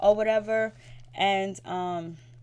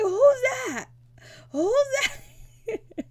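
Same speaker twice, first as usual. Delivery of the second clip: very high, drawn-out mimicked wail; mock crying; 6 dB louder, much slower than usual. Mother staring at her new tattoo, mock crying. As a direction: wail it like a hammed-up sob, laugh creeping in. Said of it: "And she's crying".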